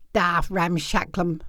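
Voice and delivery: low, slow country uncle voice; gruff old uncle. Acted. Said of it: "said Uncle Art".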